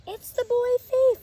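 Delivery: put-on a frightened girl squeaking at the thief; squeaked. A narrator's reading. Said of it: "she squeaked".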